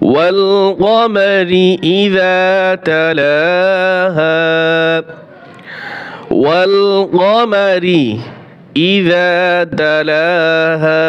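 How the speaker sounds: slow melodic tilawat, each word drawn out; measured devotional chanting; Quran recitation. Acted. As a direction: chant the verse with long held vowels.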